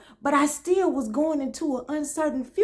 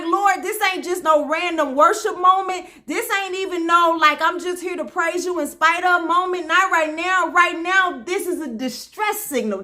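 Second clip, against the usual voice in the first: retold plea to the Lord, pitched up; urgent prayer; 5 semitones higher than usual. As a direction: act out an emphatic distress prayer. Acts out urgent prayer to God.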